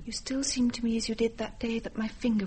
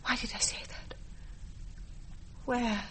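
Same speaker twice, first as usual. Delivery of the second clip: hushed recollection; 8 dB quieter than usual. Acted. To herself while remembering the ship, whispered realization. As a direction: murmur as the memory surfaces.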